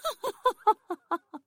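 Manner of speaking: high, long ringing witch laugh. Acted. Witch laughing at the girl's faith, ringing laugh. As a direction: cackle at her naivety. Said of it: "ضحكت ياقوت ضحكات طويلة رنانة".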